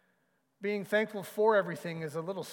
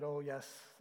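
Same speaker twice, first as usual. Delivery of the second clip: reluctant; 3 semitones lower, 9 dB quieter, slower than usual. A narrator's reading. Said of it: "Corrie bit her lip and said".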